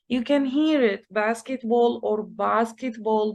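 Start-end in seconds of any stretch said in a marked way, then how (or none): 1.1-3.3 basketball said British first, then American; British then American accent. Shown as a demonstration. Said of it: "One is the British accent and one is the American".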